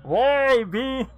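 high, loud panicked pleading; panicking gamer. Real, not acted. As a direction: cry out in real alarm. Panicking at game events.

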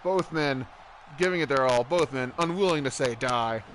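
excited play-by-play call; wrestling commentator. Acted. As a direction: call the match like ringside.

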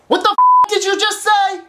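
high, exasperated disbelief; incredulous outburst. Acted. Caller baffled by the support agent, high incredulous outburst. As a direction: blurt it out in shock.

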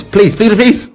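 high pleading then triumph. Real, not acted. Escaping the pod attack.

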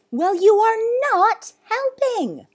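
slow, high, very loud rebuke; enraged. Acted. Zoo owner scolding the boy, enraged. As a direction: thunder each word in rage. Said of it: "face was red with rage".

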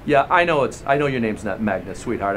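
lightly sarcastic aside; mock-sweet, tongue in cheek. Agent mocks the wife's name, lightly sarcastic. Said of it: "I'm being sarcastic".

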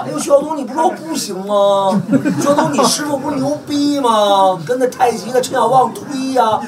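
mock him in a high teasing whine; imitating the rival's smug jeering voice; mocking taunt. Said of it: "王八蛋回来骂我".

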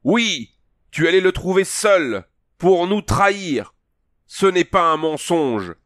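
voix haute, forte et lente au début; haine accusatrice. Acted. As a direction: accuser en martelant chaque mot. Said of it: "Un hurlement de haine accusatrice". (le vieux chef accuse Conan de trahison, plein de haine)

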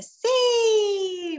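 a high, loud exclaimed Sí; exclaimed yes. Shown as a demonstration. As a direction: shout out "Sí" like an exclamation. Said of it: "quiere gritar algo".

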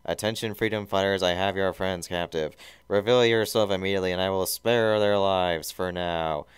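lightly voiced nasal henchman, loud; a hint of flat, nasal threat; flat, nasal Snively. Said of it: "flat, nasal voice of Snively".

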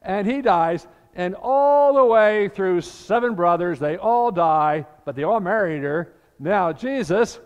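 smirking Sadducees springing their trap. Retold or imitated. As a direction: tell it like a sly joke you can barely keep straight. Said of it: "they're really smirking now".

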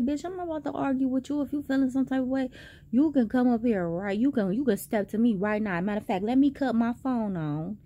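recreating the heated dare in the aisle; retold challenge. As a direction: dare her to step up. Retold challenge, second version.

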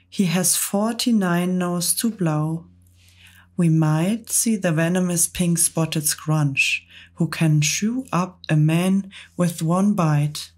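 bouncy, rhythmic verse recital; poem recital. A narrator's reading. Centipede reciting a comic poem to the travellers, bouncy and rhythmic. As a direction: recite it with gleeful relish.

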